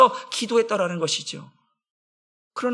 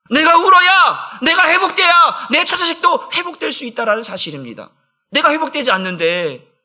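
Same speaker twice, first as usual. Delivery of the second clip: impassioned preaching; 7 semitones higher, 6 dB louder than usual. Real, not acted. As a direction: hammer the point home fervently. Preacher at full force. (힘껏 외치는 설교)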